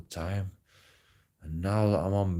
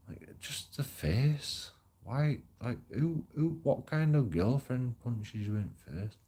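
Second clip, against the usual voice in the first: higher, incredulous rant; real outrage, pitched up high; disbelief; 7 semitones higher than usual. Real, not acted. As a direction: ask it like you still can't believe it. Outraged at being punched.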